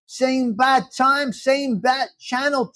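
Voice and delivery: slow dramatic TV-announcer catchphrase; announcer sign-off. Pretend. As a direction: draw it out like old Batman TV.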